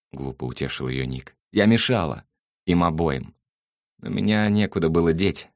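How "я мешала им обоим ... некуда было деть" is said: put-on hurt girl. Girl insists she was in the way.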